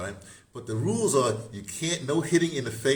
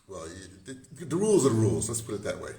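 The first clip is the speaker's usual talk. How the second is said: ordinary talk, nothing marked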